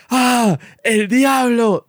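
high, loud, slow shriek of fright; mom's terrified scream. Retold or imitated. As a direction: shriek as if seeing the devil. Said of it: "Y mi mamá, y que".

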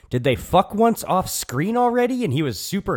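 high-pitched, incredulous questioning; retold confusion. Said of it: "I'm just like".

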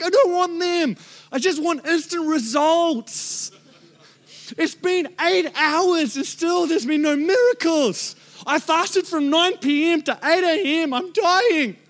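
high, slow whiny complaint; mock whining. Preacher retelling his fasting complaint, high whine. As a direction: whine like a hungry child.

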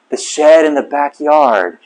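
slow, understated disbelieving echo; stunned disbelief. Retold or imitated. Husband realizing his mistake to wife, slow stunned question. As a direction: repeat it slowly as it sinks in.

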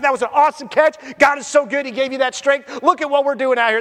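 excited praise. Pretend. Defensive back praising the receiver.

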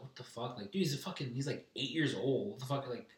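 mildly incensed, rapid exasperated protest; retold pissed-off reaction. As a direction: replay your disbelief, a touch of anger. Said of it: "I was fucking pissed".

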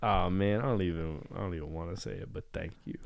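quiet, low retold reply, fading off; hushed polite refusal. Declining a friend's offer in seventh grade, hushed. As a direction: decline softly, almost under the breath.

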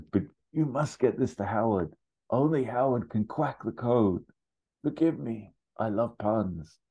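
high-pitched dying duck; croaking duck. Acted. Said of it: "Duck Bill croaks".

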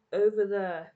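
shouting. Acted. Poem recital, calling out.

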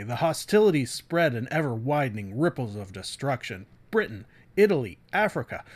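light dramatic trailer read with weighty pauses; William Shatner style. Acted. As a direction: loosely ham up the blurb like a movie trailer. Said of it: "I'm doing a William Shatner impression".

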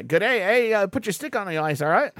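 put-on a botched Australian-Canadian accent on purpose; playful fake Aussie-Canadian accent; mock Aussie-Canadian accent. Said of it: "I'm doing Aussie French".

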